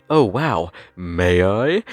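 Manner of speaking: mock cartoon villain relish, swooping pitch; exaggerated cartoonish politeness; Looney Tunes character. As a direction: ham it up like a scheming cartoon character, rising into the question. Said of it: "talking like a fucking Looney Tunes character".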